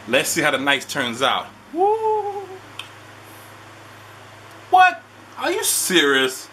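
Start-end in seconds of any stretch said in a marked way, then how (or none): 1.7-2.5 excited woo. Real, not acted. Celebrating Steph's return. 4.7-6.5 surprised. Real, not acted. Reacting to the match.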